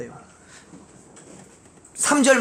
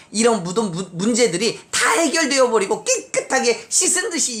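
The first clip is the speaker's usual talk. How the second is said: higher-pitched, forceful sermon delivery; raised, insistent preacher's voice; emphatic preaching; 6 semitones higher than usual. Real, not acted. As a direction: drive it home to the congregation.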